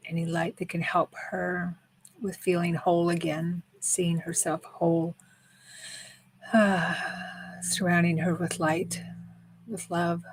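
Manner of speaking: soft, unhurried healing intention with long pauses; healing meditation. Real, not acted. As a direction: gently send healing thoughts, leaving space between phrases.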